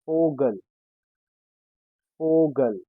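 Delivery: Vogel said "FOH-gel", twice; Vogel, V sounded as f; German pronunciation. Shown as a demonstration. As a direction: start each Vogel with an f. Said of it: "sounds as F".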